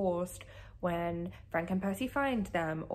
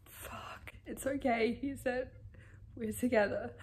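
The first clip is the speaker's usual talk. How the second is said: tender whisper; 4 semitones higher than usual. A narrator's reading. Percy comforting Annabeth after rescue.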